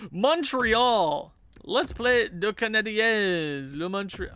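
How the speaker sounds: hammed-up French-accented announcement; bad French accent. Announcing Montreal as opponent, in a bad mock French accent. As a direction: announce it grandly in a badly faked French accent. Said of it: "no idea how to do a French accent".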